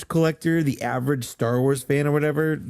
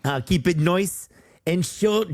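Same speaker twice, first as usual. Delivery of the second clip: put-on failed British accent; 5 semitones higher than usual. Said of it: "that sounds Australian".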